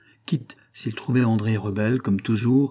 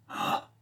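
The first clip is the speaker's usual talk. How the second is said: soft sigh of relief; soupir de soulagement; 9 dB quieter than usual. A narrator's reading. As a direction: let out a low, relieved breath. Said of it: "fit André en respirant". (soupir soulagé, tout bas)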